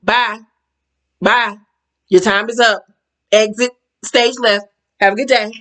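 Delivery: mock dismissive farewell at an even volume; cool dismissal. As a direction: dismiss them in short, separate goodbyes. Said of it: "I just love the way she dismissed her".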